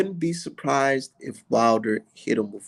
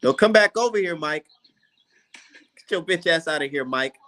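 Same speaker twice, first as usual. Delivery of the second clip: mock ejecting someone; 3 semitones higher than usual. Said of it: "That's how you got to do".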